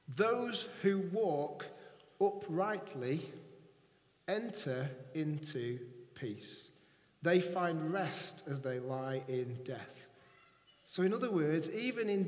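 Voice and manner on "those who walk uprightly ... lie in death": slow, weighty reading of the verse; solemn scripture reading. Acted. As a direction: let each phrase land slowly.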